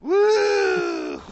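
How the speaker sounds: ghost woo. Pretend. Ghost bit continues.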